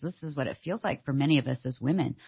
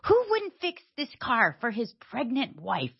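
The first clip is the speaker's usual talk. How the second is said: mild retold indignation; 7 semitones higher than usual. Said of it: "I'm so mad at Dave 'cause I'm thinking".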